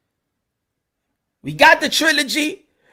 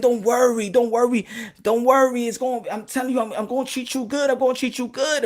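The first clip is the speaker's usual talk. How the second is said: mock smooth talk; 4 dB quieter than usual. Boxing sweet-talking fans.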